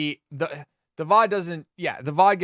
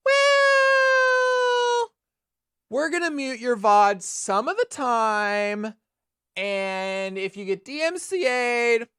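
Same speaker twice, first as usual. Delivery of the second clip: high, slow, dismissive mock voice; mocking Twitch voice; 13 semitones higher than usual. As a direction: sneer it out like an uncaring company. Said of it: "Whereas Twitch is like".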